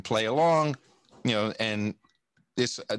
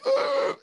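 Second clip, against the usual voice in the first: high-pitched disgusted "ugh"; disgusted groan; 4 dB louder than usual. Real, not acted. Disgust at what Australians became.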